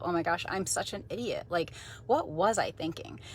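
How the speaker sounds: soft self-blaming mutter; mock self-scolding under the breath; shame statement. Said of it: "some form of a shame statement".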